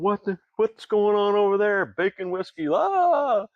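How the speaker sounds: curious passers-by erupting with delight; excited crowd. Retold or imitated. Festival crowd spotting the bacon whiskey, excited high exclaiming.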